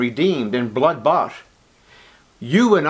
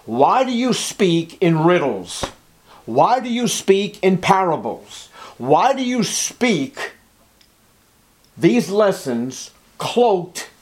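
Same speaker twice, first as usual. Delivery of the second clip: slow, higher questions, lightly acted; disciples questioning; 4 semitones higher, slower than usual. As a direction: draw out each puzzled question to the master. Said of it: "asked the question to the master".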